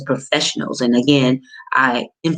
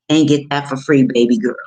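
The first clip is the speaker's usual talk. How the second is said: louder punchline; 4 dB louder than usual. Real, not acted. Coach teasing viewers about cheap tax prep, louder.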